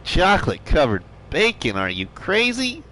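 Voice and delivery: quick, disbelieving chat voice; rising in mock disbelief on crazy; incredulous quote. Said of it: "Everybody's probably thinking".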